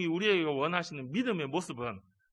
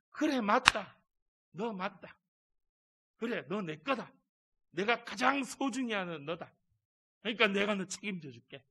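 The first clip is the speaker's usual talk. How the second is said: tender God; 4 semitones higher than usual. Acted. God's tender answer.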